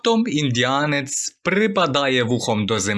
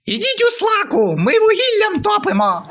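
put-on much higher, loud little girl's yell; child shouting; 4 dB louder than usual. The daughter shouts through the door at the gasmen. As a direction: shout it like a cheeky four-year-old. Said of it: "дівчинка кричить".

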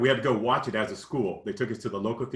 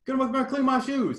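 much higher, taunting Southern voice; big country accent; 14 semitones higher, 3 dB louder than usual. Retold or imitated. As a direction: sneer it out in an exaggerated country accent. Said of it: "putting on this, big time, uh, country accent".

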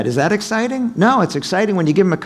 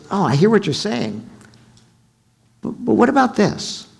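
challenging pitch; 6 semitones higher than usual. Retold or imitated. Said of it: "you say".

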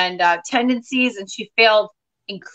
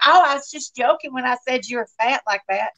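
Southern mom, dryly brushing it off; lightly voiced Southern mother; imitated dry mother. Mother claims she was just joking, dry Southern mom voice. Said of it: "has a really dry sense of humor".

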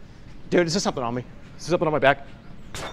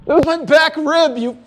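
slow indignant scolding; 6 semitones higher, slower than usual. Real, not acted. Scolding friend after hit.

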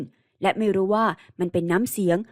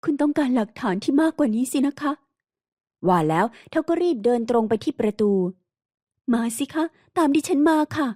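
lightly raised, wounded woman's voice; a hint of an anguished heroine; hurt young woman; 4 semitones higher than usual. Heroine leads him to proof. (น้ำเสียงหญิงสาวเจ็บปวดแบบเบาๆ)

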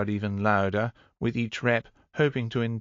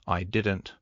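flatly uninterested reply; understated, deadpan denial. Acted. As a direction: state it with no lift at all. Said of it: "replied Mistress Vanya flatly".

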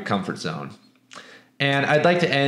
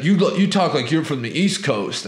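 a lightly voiced hostile redneck, a bit higher; redneck guy; 3 semitones higher than usual. Teller voicing the redneck who picks a fight, lightly imitated. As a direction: mimic the local tough sizing him up.

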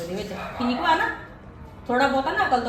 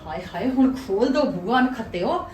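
hammed-up wailing plea to open the door; fake distress. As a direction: put on a mock dying cry for the family. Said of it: "ਮਰਨ ਦੀ acting ਕਰਦੀ ਆ". (ਨਕਲੀ ਦੁਹਾਈ)

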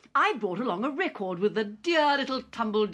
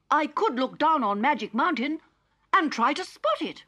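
Digby; 8 semitones higher than usual. Acted. Digby asks Polly to fly him high, high and eager. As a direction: pitch it up eager as the robot.

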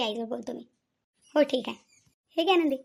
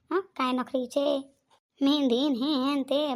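mocking drawl; much slower than usual. Neighbour mocks the bride's fuss.

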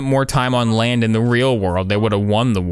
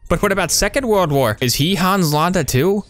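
teasing a game character in a raised voice; half-joking reproach, voice pitched up; playful higher-pitched scolding; 7 semitones higher than usual. Pretend. Scolding the on-screen character Mary, higher and teasing.

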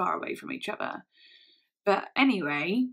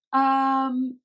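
high, loud evasive yeah yeah; deflecting; 5 semitones higher, 8 dB louder, slower than usual. Retold or imitated. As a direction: brush it off, avoiding the question. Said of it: "really deflecting".

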